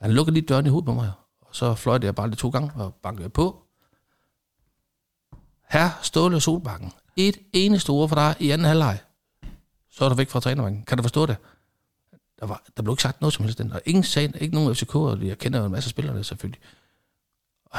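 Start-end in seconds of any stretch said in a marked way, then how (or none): 5.7-11.3 raised pitch, formal referee reprimand; retold stern warning. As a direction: lay down the law to a coach, measured.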